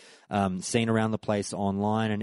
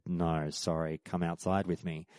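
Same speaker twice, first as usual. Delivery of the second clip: sad; 4 semitones lower, 7 dB quieter than usual. Retold or imitated. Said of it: "shook his head sort of sadly and said".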